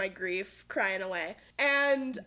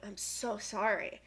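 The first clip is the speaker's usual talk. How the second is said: mock serious sympathy; 3 semitones lower, 5 dB quieter, slower than usual. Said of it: "she gets all serious".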